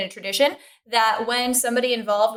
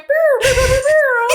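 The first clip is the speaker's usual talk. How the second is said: high droid brr brr; R2-D2 impression; 14 semitones higher, 5 dB louder than usual. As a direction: beep like a little droid. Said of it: "R two went".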